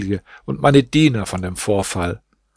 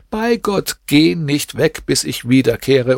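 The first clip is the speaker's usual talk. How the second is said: urgent plea; 3 semitones higher than usual. Acted. Barber begging the young man to wait, urgent plea. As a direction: swear it again, climbing up in urgency. Barber pleads, repeated oath.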